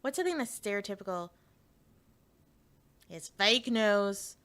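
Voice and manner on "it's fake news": very slow, tentative political impression; lightly attempted, drawn-out presidential catchphrase; Donald Trump. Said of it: "if I can do a Trump one".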